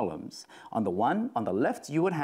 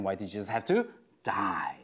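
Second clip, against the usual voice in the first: "to" pressed in a whispered voice; stress on to; 3 semitones lower than usual. Shown as a demonstration. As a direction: whisper it, leaning on "to". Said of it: "Where you put the emphasis".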